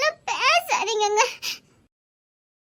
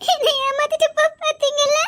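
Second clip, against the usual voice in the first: relieved half-laugh, slightly louder; laughing through tears; 3 semitones higher, 4 dB louder than usual. Acted.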